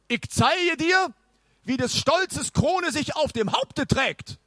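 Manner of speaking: put-on high, pompous old knight. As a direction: announce yourself like a grand knight. Knight boasts.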